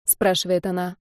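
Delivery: usual speaking voice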